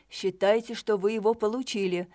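ordinary delivery, nothing marked

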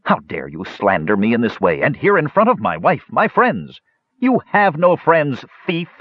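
dwarf erupting in indignant rage; outraged. Acted. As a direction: lash out at the slanderer, furious. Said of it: "Mertwig erupted".

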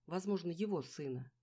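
usual speaking voice

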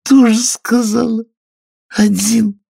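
high scoffing squeak; scornful Dormouse snort. Acted. Dormouse scoffing at Alice, high and scornful. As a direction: sniff at the silly idea. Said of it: "фыркнула Соня".

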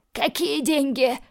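man held by the hair gasping his question; choking wheeze. Acted. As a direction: squeeze it out while choking. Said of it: "просипел он, задыхаясь".

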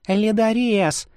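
high, drawn-out call of his name; lightly voiced girl calling happily; joyful cry. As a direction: rush to him calling out. Princess rushes to prisoner.

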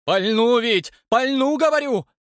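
high, loud panicky warning; scared watchman waving his gun; frightened threat. A narrator's reading. Night watchman threatens the stranger, high and panicky.

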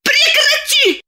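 резко высоко взвизгнуть; взвизгни на мужа; визг. A narrator's reading. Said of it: "взвизгнула Диана". (Диана взвизгивает «Прекрати!»)

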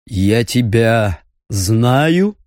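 slow, low demon question; menacing monster voice; demonic voice. Acted. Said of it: "спросил император".

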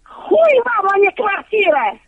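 loud, high rude yell; shouting. Real, not acted.

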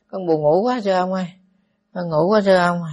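lightly voiced sleepy child; a hint of a small child whining to the monk; child ghost. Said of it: "ma con nít". (giả nhẹ giọng con nít buồn ngủ)

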